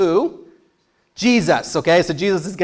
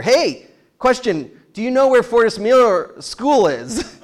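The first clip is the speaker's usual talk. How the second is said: asking driver; 6 semitones higher than usual. Retold or imitated. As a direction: lean out and ask politely. Retold driver asking directions.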